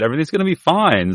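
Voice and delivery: quoting the doctor. Retold or imitated. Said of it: "the doctor said".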